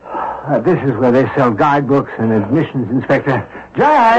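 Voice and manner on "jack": calling out. Acted. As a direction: call out to find him. Calling for friend again.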